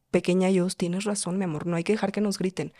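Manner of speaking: soft, soothing self-comfort; lightly tender, as to your small self; mothering. Acted. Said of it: "Cuando empiezas a maternar". (maternal, en voz baja)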